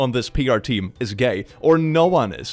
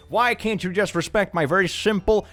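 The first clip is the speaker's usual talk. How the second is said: sarcastic; 7 semitones higher than usual. Pretend. Mocking a conservative's complaint.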